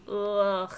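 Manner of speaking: drawn-out groan of discomfort; disgusted ugh. Shown as a demonstration. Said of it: "where I'm just like, it gives me".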